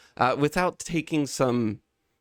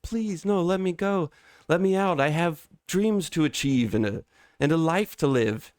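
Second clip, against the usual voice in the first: higher, pleading in mock panic; panicked plea; 6 semitones higher than usual. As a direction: beg to be let go, half-acted. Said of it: "you start panicking".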